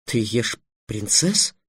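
slow, incredulous question; astonished. Acted. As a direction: ask it in amazement, stretching the words. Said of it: "поразился Трикс". (поражённо, с растяжкой)

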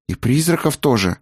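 hesitant question. A narrator's reading. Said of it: "негромко спросил Артан". (негромкий вопрос высоким голосом)

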